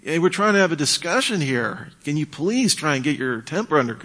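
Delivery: forceful, high-pitched interruption that levels out; coming in strong. Shown as a demonstration. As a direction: jump in hard to halt an argument. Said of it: "you could come in strong and say".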